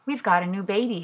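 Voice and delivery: sleepy yawn through the words. Acted. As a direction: say it mid-yawn, drowsy. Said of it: "she said, yawning".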